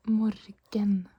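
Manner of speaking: "Morgen" with both syllables and a hard G; as spelled. Shown as a demonstration. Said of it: "because that's how it's spelled".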